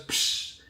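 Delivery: imitated burst of gushing water; short hissed splash noise; water whoosh. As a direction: mimic water suddenly spilling out. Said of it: "all the water just goes".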